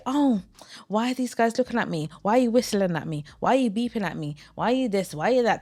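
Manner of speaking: mocking whiny woman. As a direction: mimic her fake innocent complaint. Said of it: "Then you say".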